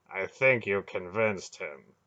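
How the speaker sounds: slow, dry understatement. Acted. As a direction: say it drily, a touch amused. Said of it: "Belgarath said dryly".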